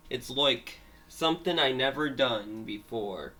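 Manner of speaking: attempted Australian accent; amateur go at sounding Australian. Shown as a demonstration. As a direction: try out a light Australian accent. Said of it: "learn how to do an Australian accent".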